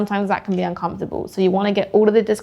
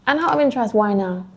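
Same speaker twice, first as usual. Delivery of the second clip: over-rehearsed. Shown as a demonstration. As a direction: ask it like you've said it a thousand times. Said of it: "Like you've said it a thousand times before".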